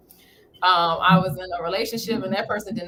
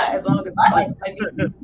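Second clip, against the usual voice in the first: laughing. Real, not acted. Laughing off old teasing about her feet, high laughter. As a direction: giggle your way through the line.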